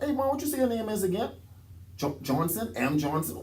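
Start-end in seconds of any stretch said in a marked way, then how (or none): 0.0-1.3 mock coach voice. Coach voiced in a retold story.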